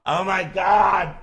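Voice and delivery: high, loud, drawn-out "Oh my God!"; loud, slow, exasperated cry of disbelief; exasperated outburst. Real, not acted. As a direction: throw up your hands in disbelief. Host exasperated, on-air frustration.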